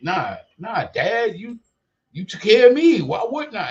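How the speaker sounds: mock the kids' casual shrug of a reply; imitating his kids.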